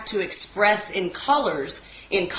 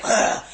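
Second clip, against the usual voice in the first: retold exasperated groan; throaty, disgusted "ugh"; 3 dB louder than usual. Imitating Tina storming off to smoke, exasperated groan. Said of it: "So she's like".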